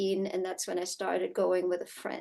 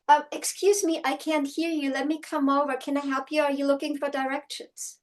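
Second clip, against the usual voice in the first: higher-pitched, politely helpful voice; polite helpful offer; 6 semitones higher than usual. Pretend. Calling to someone at the fence, polite and helpful. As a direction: act out an obliging offer to a stranger. Models her own friendly reply to stranger.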